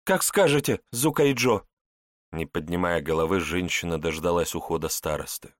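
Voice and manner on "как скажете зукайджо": higher, humble servant voice; bow to your master; submissive woman. Acted.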